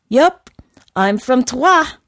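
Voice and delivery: loud, high, slowed excited proclamation; bursting with pride, near a neigh; at the height of excitement. A narrator's reading. Horse proudly announces Troyes, wildly excited. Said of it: "neighed the horse at the height of excitement".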